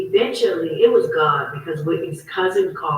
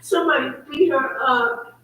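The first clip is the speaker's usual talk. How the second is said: imitating an upset cousin, higher voice; raised-pitch retelling of a tearful report; retold distressed cry; 6 semitones higher than usual. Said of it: "she was screaming and crying".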